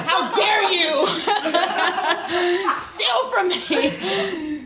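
indignant duck. Retold or imitated. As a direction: play the offended duck, cracking up mid-line. Duck reclaiming its property.

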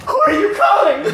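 very high, shouted taunt; taunting scare character. Retold or imitated. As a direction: hound the victim with a shrieked question. In character, hounding Michael.

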